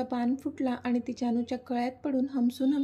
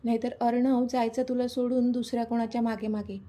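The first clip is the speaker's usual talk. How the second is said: teasing with a laugh. Acted. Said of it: "तिला चिडवून हसून बोलली".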